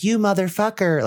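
high raspy mock demon voice; lightly imitating the demon; demonic double voice. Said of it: "it sounds like that".

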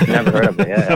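high breathless laugh through the words; amused laughing repeat of the joke; laughing echo. Real, not acted. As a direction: laugh it out in disbelief.

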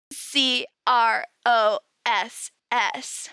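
hushed, secretive spelling out; whispered spelling. Acted. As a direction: whisper the letters slowly, one by one. Spelling out a forbidden word.

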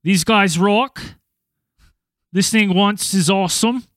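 put-on reading a review in a light Australian accent; a hint of Aussie twang on a fan's words. Host reads an Aussie listener's review, light Australian accent. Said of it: "that was my best Aussie accent".

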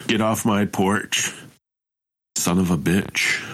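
put-on slow, gruff old man warning; shouting at trespasser. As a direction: growl it slowly from the porch.

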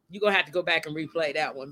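laughing. Real, not acted. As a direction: repeat it quickly with a laugh running through. Repeats it, laughing at herself.

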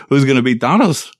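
Latin accent. Real, not acted. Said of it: "You gave him an accent in there".

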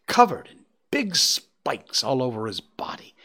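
hushed, spooky whisper; whispered warning. Acted. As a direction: whisper it like a scary secret. Child warns of hedgehog, whispered.

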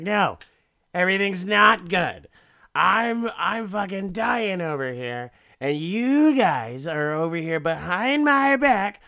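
high, loud, wounded outburst; hammed-up angry protest; mock yelling. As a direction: yell it like a betrayed husband. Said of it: "He's just yelling".

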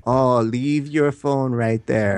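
slow, drawn-out spa-staff voice; imitated massage therapist. Massage therapist to a client with a phone, mock soothing. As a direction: lightly mimic a therapist's slow instruction.

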